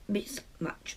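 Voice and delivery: mismatch whispered under the breath; whispered repeat. Real, not acted. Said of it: "But they're a real mismatch".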